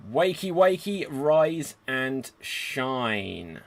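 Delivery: cheery morning call; sing-song wake-up call. Acted. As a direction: rouse the sleepy village playfully. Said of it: "GM wakes the village".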